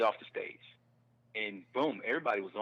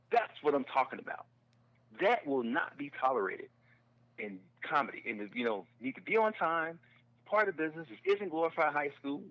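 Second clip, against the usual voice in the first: emphatic, higher-pitched mock lecture; retold berating; 5 semitones higher than usual. Club manager lecturing a room of new comics, berating. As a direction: imitate a manager laying down the law. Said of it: "just berated us".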